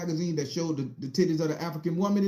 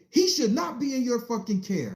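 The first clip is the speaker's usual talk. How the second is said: indignant official; 8 semitones higher than usual. Retold or imitated. Official berates mother.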